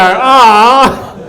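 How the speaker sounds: loud, high, drawn-out "aah"; high mock coo from the audience; imitated audience "aah". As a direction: mimic a crowd member going "aah". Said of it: "did someone just go".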